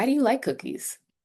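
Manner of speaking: voice drops off, falling intonation on cookies. Showing how intonation drops on a question, falling intonation at the end. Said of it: "Your intonation will drop".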